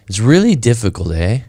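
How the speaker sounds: lightly imitated South African accent. Retelling what his South African friend said over breakfast, light accent. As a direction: quote him with a hint of South African lilt. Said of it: "He's got this kind of funny accent".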